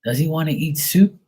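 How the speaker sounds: put-on high-pitched old great-aunt voice; great-aunt quote. Great-aunt asks who this little boy is, high mock voice. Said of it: "then her sister would".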